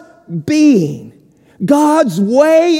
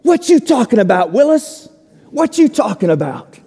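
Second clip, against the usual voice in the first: Arnold's catchphrase; faster than usual. Retold or imitated. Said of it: "he would say".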